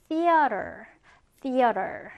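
theater enunciated carefully for repeating; teacher's careful model of theater; slow careful pronunciation. Shown as a demonstration. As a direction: say theater slowly, as a model for learners. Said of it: "쌤이 천천히 발음할 테니까".

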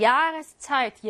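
야레스차이트 with 야 stressed; stress on first syllable. Shown as a demonstration. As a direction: lean on the opening 야 of 야레스차이트. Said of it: "얘가 일 강세네". (야레스차이트의 첫 '야'에 강세)

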